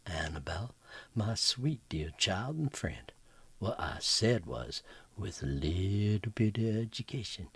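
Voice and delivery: smother her in sweetness; sweet comeback. Acted. Mary Lou sweetly cutting down Annabelle over tea, honeyed whisper.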